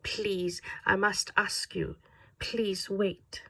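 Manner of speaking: desperate German voice, whispering, fading into static; German accent fading to a whisper. A narrator's reading. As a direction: let the plea die away under the static. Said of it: "turned desperate when the static started drowning him out".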